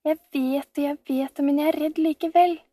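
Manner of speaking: put-on scared child. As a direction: plead with fear. Frightened girl at bedtime.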